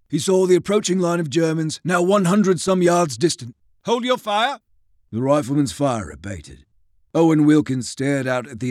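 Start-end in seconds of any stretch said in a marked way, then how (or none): 3.8-4.6 shouted command. Acted. Major commands his men.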